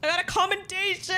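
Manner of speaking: high, delighted shout; excited cry. Real, not acted. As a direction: squeal with joy. Excited at the reward.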